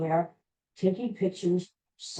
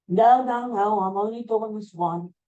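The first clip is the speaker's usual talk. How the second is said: retold yell, only slightly raised; mild mock yell; 3 semitones higher than usual. Singer holds off fans running back down the hill, mild mock yell. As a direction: call it out as a half-hearted yell. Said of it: "And she yells".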